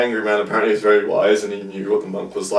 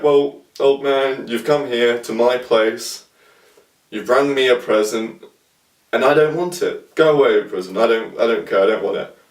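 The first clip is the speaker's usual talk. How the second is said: monk's firm punchline; 2 semitones higher than usual. Retold or imitated. Monk's punchline in a retold story.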